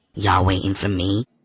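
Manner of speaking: seductive, sexy tone. Reading a story, the narrator greets friends from a car window: said real sexy. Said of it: "said real sexy like".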